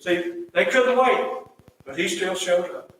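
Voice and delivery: fervent sermon delivery; impassioned preaching. Real, not acted. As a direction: land the point firmly. Preaching at raised force.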